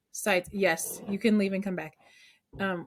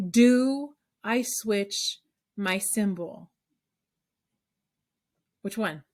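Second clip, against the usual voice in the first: very slow, word by word; dramatic question; slower than usual. Shown as a demonstration. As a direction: draw out the big question for the class. Poses the million dollar question.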